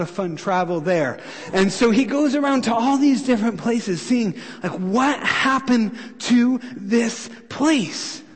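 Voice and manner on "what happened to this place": very slow, word by word in disbelief; stunned, drawn out. Acted. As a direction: stretch every word of the question in amazement. Nehemiah voiced surveying the ruins.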